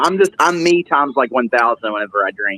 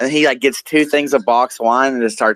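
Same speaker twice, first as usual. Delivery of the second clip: ordinary talk, nothing marked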